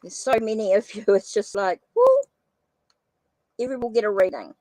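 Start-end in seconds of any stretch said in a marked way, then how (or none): 2.0-2.1 short, high-pitched whoo; overwhelmed whoo. Real, not acted. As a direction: let out a quick whoo at the workload. Overwhelmed by so many names.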